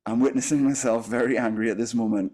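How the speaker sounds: even, measured observation; detached witness. Shown as a demonstration. Teacher demonstrating the inner witness to a class, detached observation. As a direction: report the anger as an observer, without heat. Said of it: "a difference of, of the texture".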